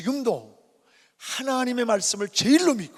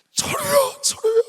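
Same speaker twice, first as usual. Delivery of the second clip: loud, much higher anguished calling of a name; wailing mother; 10 dB louder than usual. Retold or imitated. Mother wailing over her beaten son, loud high anguished calling. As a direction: wail the child's name like a grief-stricken mother. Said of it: "미친 여자처럼 통곡을 하는 거예요".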